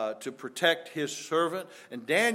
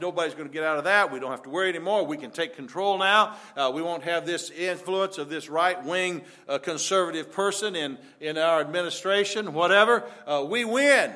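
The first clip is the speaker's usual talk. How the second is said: gloating; 2 semitones higher, 5 dB louder than usual. Retold or imitated. Accusers gloat over trapped Daniel.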